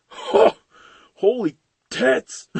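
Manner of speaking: high, gasped mock astonishment; gasp, then swear in disbelief; stunned gasp. Viewer reacting to the transformation, astonished. Retells own shocked reaction.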